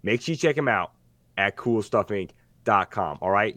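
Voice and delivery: a light, hammed-up Brooklyn wiseguy ad read; mock Brooklyn accent. Host reading the sponsor ad in a weak Brooklyn voice. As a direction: sell it like a half-baked mobster. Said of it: "now I can't do the voice".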